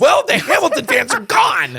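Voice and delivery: high laughing joke, slowed down. Real, not acted. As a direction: laugh it out in disbelief. Joking after Hamilton dig.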